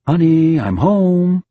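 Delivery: husband calling home to his wife. Acted. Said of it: "I call".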